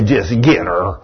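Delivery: low, soft demon whisper in the ear; a low tempting demon. Retold or imitated. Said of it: "that demon would say".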